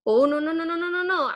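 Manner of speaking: brisk self-correction; self-correcting. Retold or imitated. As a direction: catch yourself and shut it down. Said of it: "and then go".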